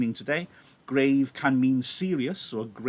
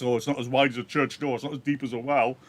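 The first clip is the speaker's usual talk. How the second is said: sarcastic; faster than usual. Acted. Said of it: "He's sarcastic with this".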